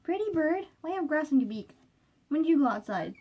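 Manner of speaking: high cooing voice for a parrot; pet talk. Real, not acted. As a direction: coo at the bird. Talking to pet bird.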